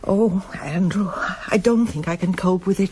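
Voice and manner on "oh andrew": weary whisper. Acted. Mother confides dread to husband.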